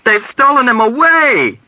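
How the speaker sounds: high, urgent outcry; shouting back. A narrator's reading. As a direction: shout back the horrible news. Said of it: "Dunbar shouted back".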